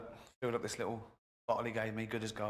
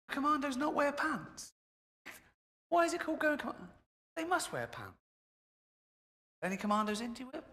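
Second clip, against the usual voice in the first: mock incredulous; 13 semitones higher than usual. Mocking soldiers with no pants.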